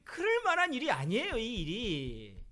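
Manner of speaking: 그럴 pushed hard then a slow tag; emphatic insistence. Real, not acted. (그럴을 높고 세게, 이 일이는 천천히)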